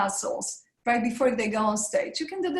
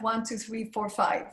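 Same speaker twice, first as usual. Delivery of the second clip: counting slowly for breath. Shown as a demonstration. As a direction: count the beats out gently. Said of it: "on the count to five".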